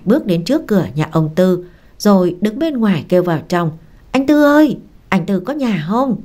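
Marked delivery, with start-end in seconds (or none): 4.1-6.1 calling out. Acted. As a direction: call him from outside the gate. Calling from outside the gate.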